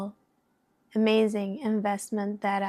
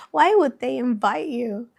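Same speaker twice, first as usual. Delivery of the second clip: sabotaging inner voice; 2 semitones higher, 7 dB louder than usual. Retold or imitated. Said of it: "that sabotaging voice".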